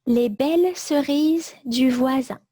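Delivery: dictating. Shown as a demonstration. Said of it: "Je répète tout le texte".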